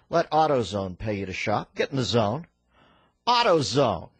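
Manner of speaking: upbeat sponsor read, AutoZone stressed; punchy live-read commercial. Acted. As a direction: sell it like a radio spot. Reads AutoZone ad.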